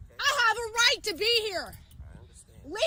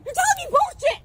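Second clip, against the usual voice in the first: furious shout; 9 semitones higher, faster than usual. Real, not acted. Mother shouting at a police officer over lunch, furious yelling. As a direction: shout him down in real fury.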